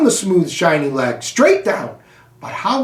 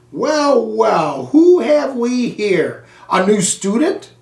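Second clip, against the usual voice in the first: a lightly voiced big friendly man, slow and booming; booming janitor; 3 semitones higher, slower than usual. Janitor greeting the hamster in the dark classroom, hearty boom. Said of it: "a voice boomed".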